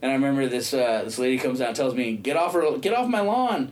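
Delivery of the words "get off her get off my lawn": mock indignant yell, pitch jumping up; scolding homeowner. Lady ordering him off her lawn, scolding. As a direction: order a trespasser away in a higher voice.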